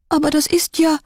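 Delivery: hoch und erschrocken aufgeschrien. A narrator's reading. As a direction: die kleine Kissy erkennt den Wolf. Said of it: "rief erschrocken". (erschrockener Ausruf eines Kindes)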